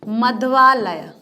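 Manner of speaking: मध्वालय drawn out slowly, syllable by syllable; teacher dictating मध्वालय at half speed; slow dictation. Shown as a demonstration. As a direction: spell out मध्वालय slowly for the class. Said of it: "संधि विच्छेद में हम लेते हैं एक शब्द".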